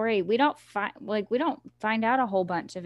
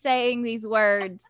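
disgusted; 3 semitones higher, 6 dB louder, much slower than usual. Real, not acted. Reacting to crude book words.

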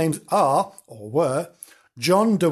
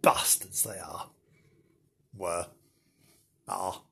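hushed whisper; 8 semitones lower, 9 dB quieter than usual. A narrator's reading. Sinister hushed storytelling.

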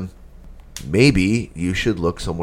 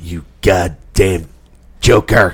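slow, louder growl at the villain; gruff movie cop voice; 4 dB louder, slower than usual. Retold or imitated. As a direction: play a grizzled old film detective. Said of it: "by fucking Clint Eastwood".

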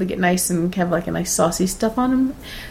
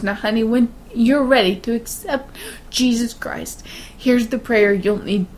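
slow, lightly voiced shaky old lady; a hint of a doting old woman offering her hand; 2 semitones higher, slower than usual. Narrator mimics the old lady's prayer offer, slow and mildly shaky. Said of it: "and she goes".

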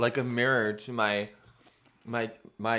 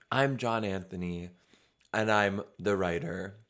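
voice cracking; 3 semitones lower than usual. Real, not acted. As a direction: voice cracks on the words. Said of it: "My voice cracked a little bit".

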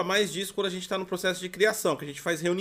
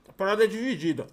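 chewing while talking. Real, not acted. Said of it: "Você vai ficar comendo e falando?".

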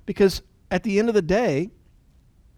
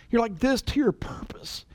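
whisper; 4 semitones higher than usual. Real, not acted. Closing a list, dropping to whisper.

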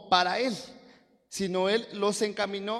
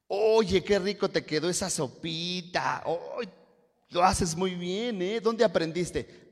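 admiring praise; slower than usual. Acted. Acted compliment on someone's soup.

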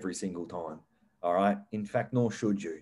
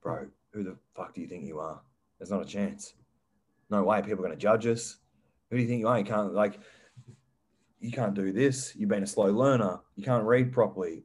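doubting inner voice. Retold or imitated. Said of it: "another voice who says".

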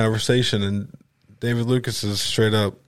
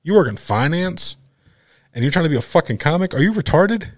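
higher, incredulous roast; mocking disbelief; 7 semitones higher than usual. Comic mocking the banker who wants to do comedy, incredulous. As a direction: sneer at his day job.

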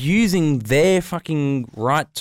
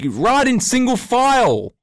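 retold yell; 9 semitones higher, 4 dB louder, slower than usual. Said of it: "I yelled out".

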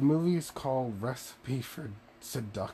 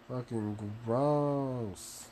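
slow, drawn-out disgust; much slower than usual. Real, not acted. Speaker calling the fake chicken gross, disgusted. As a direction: stretch it out in revulsion.

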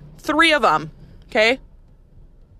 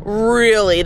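short blunt really, falling; clipped sarcastic retort; flat sarcastic. Real, not acted. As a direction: drop it flatly, unimpressed. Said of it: "That thought has never crossed your head?".

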